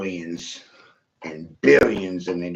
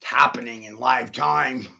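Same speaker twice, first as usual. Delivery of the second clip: whisper. Real, not acted. Hushed confiding remark.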